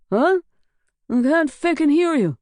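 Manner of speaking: high, loud half-deaf shout; shouting because he's deafened. Acted. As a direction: yell over ringing ears. Deafened by the shotgun blast.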